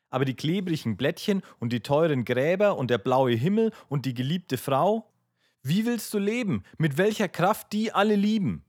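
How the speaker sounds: distressed appeal. A narrator's reading. Aljoscha pleading with his brother about living, distressed. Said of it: "rief Aljoscha bekümmert".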